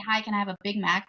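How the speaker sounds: "Big Mac" in a fast, plain American accent; American pronunciation. Shown as a demonstration. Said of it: "I'm not gonna say".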